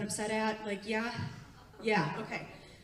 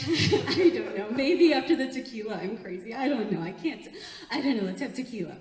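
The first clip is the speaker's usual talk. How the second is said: giggly flirting; 4 dB louder than usual. Acted. Acts out her flirty reply.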